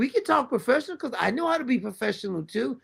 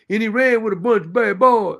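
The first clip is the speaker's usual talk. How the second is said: mocking Biden's talk; 4 dB louder than usual. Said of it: "See, I can talk like you coloreds".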